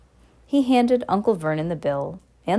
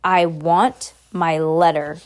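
shouted; 4 dB louder, slower than usual. Acted. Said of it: "he shouted".

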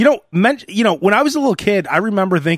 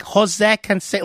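put-on Spanish accent. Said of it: "she said it with the accent".

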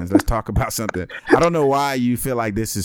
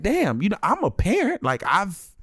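higher, sarcastic and put-upon; mock offended dad, pitched up; sarcastic inner rant; 5 semitones higher than usual. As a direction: pretend thanks with sarcasm. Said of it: "thinking to myself".

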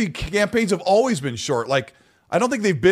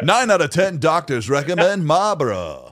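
chipper 1950s ad; slower than usual. Retold or imitated. Mock cigarette ad.

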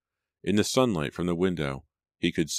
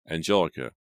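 eager call; 4 dB louder than usual. Acted. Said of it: "he called eagerly from the hallway".

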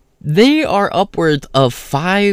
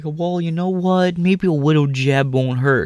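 mock caving friends; 4 semitones higher, slower than usual. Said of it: "they were like".

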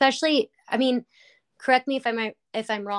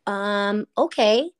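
hesitant agreement; 5 dB louder, slower than usual. Retold or imitated. Stranger answering a psychic's odd question, hesitant. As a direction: imitate an unsure, wary okay. Stranger asked to receive message.

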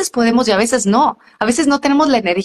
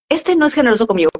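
quick reminder to herself; 3 semitones higher, faster than usual. Shown as a demonstration. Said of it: "O digo".

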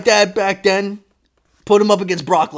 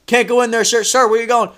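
raised, higher-pitched urgent calls; teachers yelling; 7 semitones higher, 6 dB louder than usual. Retold or imitated. Teachers trying to stop a dad at school, yelling. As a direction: call out to stop an intruder. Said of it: "teachers yelling at him".

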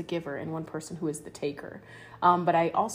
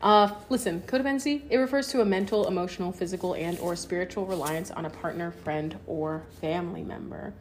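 teacher voice. Pretend. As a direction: read it out like a teacher to the class. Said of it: "I'm gonna have to use my teacher voice".

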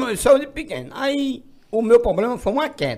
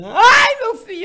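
wailing relatives; 14 semitones higher, 7 dB louder, slower than usual. Retold or imitated. Relatives wailing at fifteenth birthday.

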